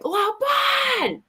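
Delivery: high called-out name; calling out. Retold or imitated. Shelly calling out to him, high called name. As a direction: call his name across the woods.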